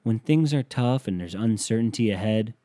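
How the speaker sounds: hammed-up commercial announcer; mock commercial voice. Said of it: "companies were going out and saying".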